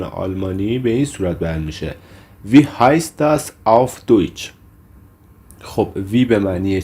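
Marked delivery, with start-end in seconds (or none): 2.5-4.4 slow, measured German for learners; slow model phrase. Shown as a demonstration. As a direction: model the phrase slowly, word by word.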